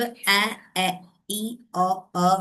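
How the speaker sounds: "ए, ए, ई, ओ, अ" as short, separate vowel sounds. Shown as a demonstration. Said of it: "short वॉल sound is". ("ए, ए, ई, ओ, अ" छोटे स्वर, अलग-अलग)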